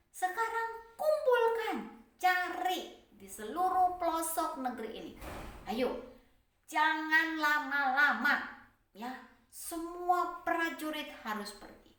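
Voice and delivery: loud, high, urgent command; king shouting orders. Acted. Pharaoh hurrying his soldiers to search, loud shout.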